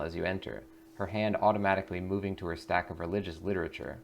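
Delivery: calm descriptive narration; measured scene-setting read; game master scene setting. A narrator's reading. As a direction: paint the serene lobby for the players. GM describes the lobby.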